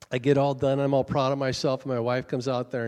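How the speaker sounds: loud, emphatic mock grievance; retold anger. Husband complaining to the pastor about his wife, imitated anger. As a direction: act out a worked-up husband, pushing the volume. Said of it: "red-faced mad".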